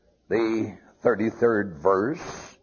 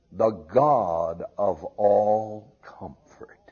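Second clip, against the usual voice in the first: whispered; 4 semitones lower, slower than usual. Acted. Whispered quote of Paul.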